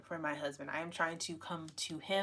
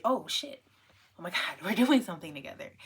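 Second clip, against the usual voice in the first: excited; 6 dB louder, much faster than usual. Retold or imitated. Acts out her excited reaction.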